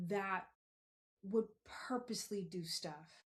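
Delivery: soft, unvoiced aside; a hushed whisper about the hurt. Real, not acted. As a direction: whisper it like a painful secret. Telling of people hurting her.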